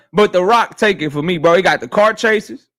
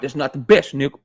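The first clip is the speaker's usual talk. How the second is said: mock chatter voice; 8 semitones lower, 4 dB quieter than usual. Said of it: "Fresh Baker say".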